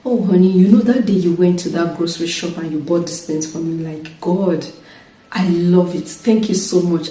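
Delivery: soft, fond thanks; sweet appreciative talk to husband. Retold or imitated. Wife sweetly thanking husband to coax help, soft and fond. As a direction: coax him gently with praise. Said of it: "I'll just tell him".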